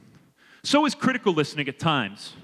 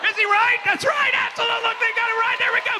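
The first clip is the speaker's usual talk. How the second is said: excited cheer. Real, not acted. Speaker celebrating the volunteer's right answer, excited.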